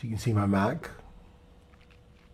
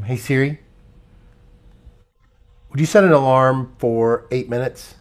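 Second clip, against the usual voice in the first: talking to voice assistant. Real, not acted. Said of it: "first I'm gonna have Siri, uh, do something".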